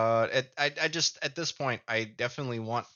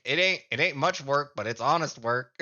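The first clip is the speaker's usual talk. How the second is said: Midwest gnome voice; 4 semitones higher, 4 dB louder than usual. Retold or imitated. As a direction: play a humble Midwest gnome, lightly. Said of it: "when I think of gnomes".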